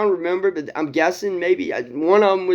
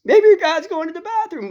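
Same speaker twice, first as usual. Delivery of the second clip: mocking jeer; 11 semitones higher than usual. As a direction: rub it in with a sneer. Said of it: "he's like this".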